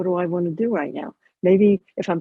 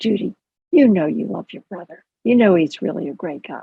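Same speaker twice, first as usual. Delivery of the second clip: secretive, hushed stage whisper. Acting out a listener who tiptoes in during a phone call: whispering. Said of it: "you're whispering".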